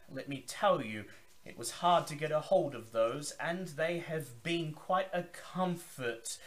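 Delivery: high, loud, grand vampire host's welcome; Zachary Forge. Acted. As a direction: boom it out like a theatrical old vampire. Zachary answers the player.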